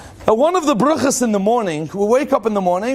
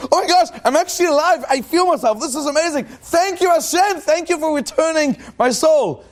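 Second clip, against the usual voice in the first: much higher, fast, amazed thanks; thrilled gratitude; 7 semitones higher than usual. Retold or imitated. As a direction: burst out like you can't believe you're alive. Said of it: "jump out of bed in the morning and say".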